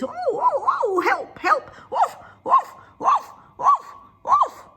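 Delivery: very high loud frightened cries; cry for help. Acted. Dog fallen through the cave cries out, frightened. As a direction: call for help from the hole.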